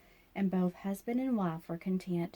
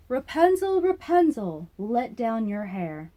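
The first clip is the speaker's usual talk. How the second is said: witch calling up; 3 semitones higher, 7 dB louder, slower than usual. A narrator's reading. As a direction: call her name up the tower wall. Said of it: "the witch called".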